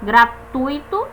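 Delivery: slow GRATUITO, UI kept in one syllable; correct diphthong. Shown as a demonstration. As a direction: stretch "gratuito" as gra-TUI-to, gliding u into i. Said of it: "Esse U e esse I ficam juntos".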